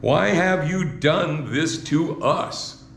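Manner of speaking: slow, drawn-out mother's plea; Saint Mary pleading. Shown as a demonstration. Preacher voices Mary asking her son slowly. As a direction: stretch each word like a worried mother. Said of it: "That's still Saint Mary speaking".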